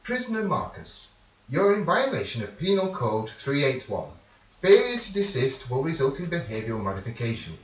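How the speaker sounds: high, clipped robotic warden broadcast; prison announcement. Acted. GM voices the prison speaker system warning a prisoner, robotic.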